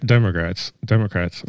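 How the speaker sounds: words slurred around braces; talking with braces. Real, not acted. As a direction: speak through a mouth full of braces. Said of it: "I can't talk with these braces in".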